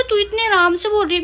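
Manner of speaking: you can't believe she is so relaxed; incredulous. Retold or imitated. Mother retells her shocked reply. (हैरानी से तेज़ और ऊँची आवाज़ में)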